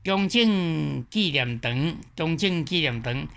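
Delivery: 中正纪念堂 in Taiwanese with sandhi on all but the last syllable, slow at first; Taiwanese answer demo. Shown as a demonstration. Teacher answering the exam question in Taiwanese. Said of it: "台湾话要怎样讲".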